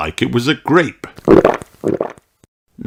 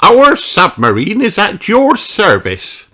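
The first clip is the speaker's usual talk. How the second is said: King Thistle's voice; 13 semitones higher, 5 dB louder than usual. Acted. King offers the submarine to Redbeard. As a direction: announce it grandly as the king.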